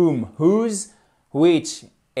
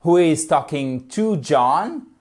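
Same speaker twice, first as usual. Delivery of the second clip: slow, clear question; slow English question; slow model question; slower than usual. Shown as a demonstration. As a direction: ask it slowly for learners.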